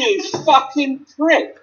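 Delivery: slow, high snarled insult; angry insult. Retold or imitated. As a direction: drag out the insult with disgust. Retelling a supermarket argument.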